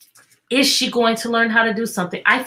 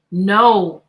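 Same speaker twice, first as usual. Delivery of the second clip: cross; 5 dB louder than usual. Acted. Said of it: "answered the jester crossly".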